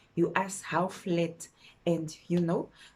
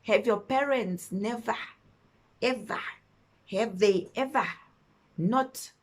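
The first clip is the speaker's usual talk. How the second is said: imitated angry boyfriend; 3 semitones higher than usual. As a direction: play the bossy man lecturing her. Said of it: "why are you shouting".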